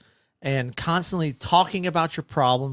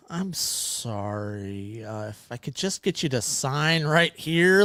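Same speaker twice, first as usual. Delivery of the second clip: indifferent sorry; 2 semitones lower, slower than usual. Retold or imitated. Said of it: "And I'm just like".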